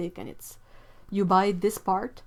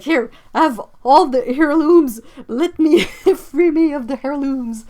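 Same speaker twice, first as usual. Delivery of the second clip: mock grand offering; 6 semitones higher, 11 dB louder than usual. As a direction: hand them over like a royal decree. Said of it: "I'm like".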